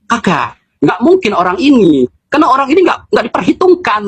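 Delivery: high-pitched, incredulous protest; imitated disbelief. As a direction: mimic someone objecting in disbelief, pitch climbing. Menirukan orang yang tak percaya. (menirukan protes tak percaya, nada tinggi)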